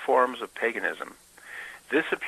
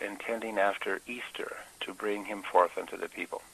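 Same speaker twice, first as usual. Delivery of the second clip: hushed reading; 5 dB quieter than usual. Acted. Preacher reading the Geneva Bible to his congregation, whispered. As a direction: whisper "intending after Easter" from the old Bible.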